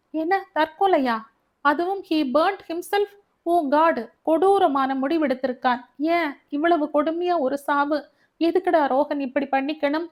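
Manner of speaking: high, loud, shaken outcry; horrified shock. Acted. Elder brother hearing of the suicide, horrified and loud. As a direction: horror breaking through every word. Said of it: "உள்ள அதிர்வு அவன் குரலில் எதிரொலித்தது".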